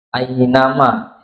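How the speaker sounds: slow "ainama", a sliding into i; soft glide to i. Shown as a demonstration. Teacher showing lin on ya, slow gliding "ainama". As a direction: stretch the start of "ainama" towards i. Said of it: "tapi i".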